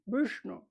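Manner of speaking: Vishnu with a dark, curled-back vowel and sh; tongue back on Vishnu; retroflex Sanskrit pronunciation. Shown as a demonstration. Teacher giving a second example, Vishnu said retroflex. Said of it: "es hacia atrás también".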